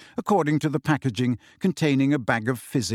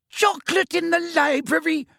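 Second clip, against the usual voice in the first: much higher, louder shriek; screamed; 3 dB louder than usual. A narrator's reading. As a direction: shriek at the pupils in fury. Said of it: "she screamed".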